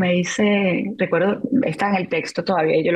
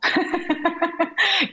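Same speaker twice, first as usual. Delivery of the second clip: a short, high burst of laughter at herself; self-mocking laugh; 11 semitones higher than usual. Real, not acted. Widow laughing at her past stubbornness, high self-mocking laugh. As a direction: laugh at your own foolishness.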